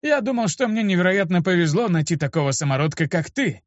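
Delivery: gloomy. A narrator's reading. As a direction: grumble it with a touch of gloom. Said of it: "хмуро сказал он". (хмуровато, по-стариковски)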